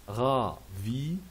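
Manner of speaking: "ravi" in two spaced syllables, ra, vi; pronunciation model. Shown as a demonstration. Teacher showing pronunciation, two clear syllables. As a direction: separate "ra" from "vi" for learners. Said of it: "c'est pour la prononciation".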